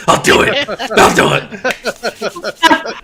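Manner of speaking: high, loud little creature voice; ghastly little creature. Acted. Teasing an ally in ghastly form, eager creature squeal. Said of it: "little Rock and Hedgehog form".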